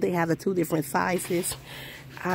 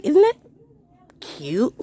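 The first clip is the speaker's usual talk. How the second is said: excited squeal; 9 semitones higher, 6 dB louder than usual. Real, not acted. Showing off welcome sign.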